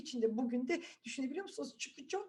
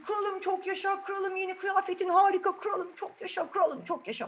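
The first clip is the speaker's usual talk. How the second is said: higher, cheering hail to the king; crowd cheering; 7 semitones higher, 4 dB louder than usual. Acted. Crowd hails the king as he parades: excited cheer.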